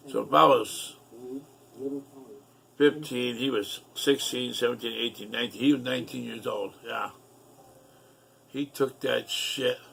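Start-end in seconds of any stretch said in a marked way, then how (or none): none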